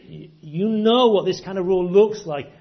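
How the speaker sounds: emphatic Jesus. Acted. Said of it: "he says to them in that huddle".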